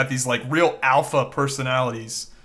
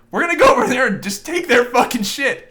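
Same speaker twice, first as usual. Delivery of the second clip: louder, higher brash boast; mocking Trump's boast, loud and higher; Trump impression; 9 semitones higher, 5 dB louder than usual. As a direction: puff it up like a rally speaker. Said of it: "He's like".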